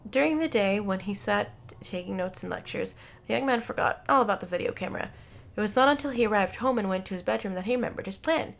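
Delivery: steady read-aloud storyteller; measured narrator's voice; story narration. A narrator's reading. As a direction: tell the story evenly, clearly phrased.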